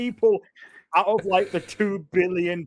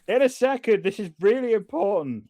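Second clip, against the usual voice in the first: half-hearted call to someone waiting; mild mock yell; 3 semitones higher than usual. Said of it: "while just yelling at".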